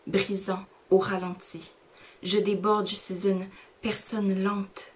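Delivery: unhurried recital, letting the images land; poem recitation. Acted. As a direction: read each line like a spoken-word poem. Recites French version of poem.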